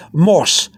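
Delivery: "mos" said like the English word moss; one single O in "mos", as in English moss. Shown as a demonstration. Teacher showing learners the wrong way, English-style "mos". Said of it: "like in English. That'd be wrong".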